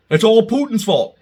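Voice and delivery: sarcastic mimic of a common excuse; mocking quote. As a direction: toss out the excuse with scorn. Mocks opponents' excuse, then answers.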